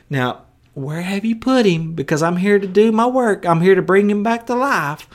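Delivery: calm gentle tone. Shown as a demonstration. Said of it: "not the kind of tone at all".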